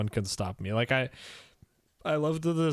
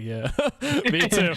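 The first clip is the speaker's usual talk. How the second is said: laughing; 6 semitones higher, 4 dB louder than usual. Retold or imitated. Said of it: "And I was like".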